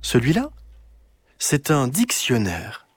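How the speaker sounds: grandmother voice. Acted. Grandmother tells her granddaughter about a dictionary, lightly voiced.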